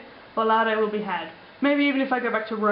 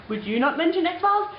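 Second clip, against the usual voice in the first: mock angry; 8 semitones higher than usual. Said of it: "Why am I so angry at you?".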